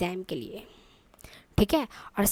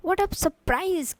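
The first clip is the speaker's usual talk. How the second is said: very slow, higher, amazed "What a surprise"; surprised exclamation; 5 semitones higher, much slower than usual. Shown as a demonstration. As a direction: stretch it out in wonder. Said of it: "strong emotions". (धीमा, ऊँचा, हैरानी भरा उद्गार)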